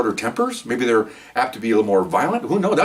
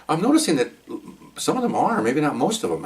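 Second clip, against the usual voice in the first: lightly raised voice for the female partner; a hint of his partner, pitched up; imitating partner; 6 semitones higher than usual. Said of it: "she goes".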